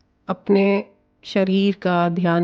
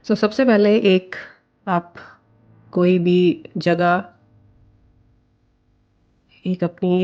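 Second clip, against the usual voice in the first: calm guided meditation voice with long pauses. Acted. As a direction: guide the listener gently into breathing, pausing between phrases. Leads a guided visualization. (शांत निर्देशित ध्यान की आवाज़)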